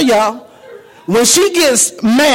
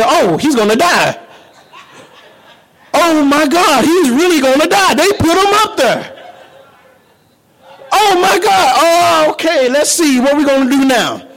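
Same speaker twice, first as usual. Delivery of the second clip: mock panic; 4 semitones higher than usual. Voicing a panicked God.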